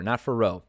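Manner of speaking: "Fiorot" as fuh-ROH, silent T; mispronounced name. Shown as a demonstration. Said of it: "I mispronounced her name".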